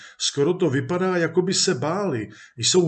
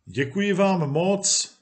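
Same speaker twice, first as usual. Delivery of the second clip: calling out; 4 semitones higher than usual. Acted. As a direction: call out a thank-you as they leave. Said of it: "volal Legie".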